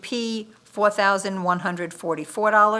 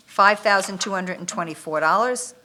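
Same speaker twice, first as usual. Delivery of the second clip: rattled off quickly; quick reading of a bid amount; said too fast. Real, not acted. Bid reader rattles off the amount too fast. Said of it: "you said that fast".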